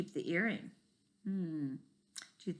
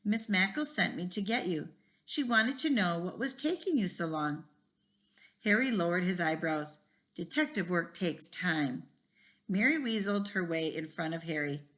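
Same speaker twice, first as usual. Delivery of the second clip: put-on reading a chapter book aloud to kids; lively read-aloud with voices for each kid; story reading; 3 dB louder than usual. A narrator's reading. Teacher reads a school mystery to the class, lively.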